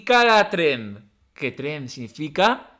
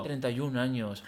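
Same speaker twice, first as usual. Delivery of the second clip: mock lament; 4 semitones lower, 9 dB quieter than usual. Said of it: "yo me veía y digo".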